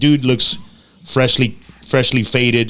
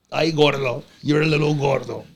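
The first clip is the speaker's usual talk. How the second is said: soft-edged pet talk, slightly raised pitch; high-pitched dog talk; 3 semitones higher, 4 dB quieter than usual. Real, not acted. Host talking to the dog Tommy, lightly high-pitched. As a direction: talk to a chubby little dog. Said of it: "have to talk in a high-pitched voice".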